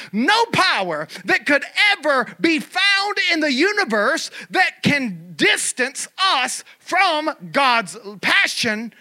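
high, forceful pulpit proclamation; preaching. Real, not acted. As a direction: proclaim it with full conviction, stretching key words.

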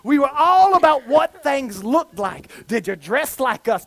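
usual speaking voice

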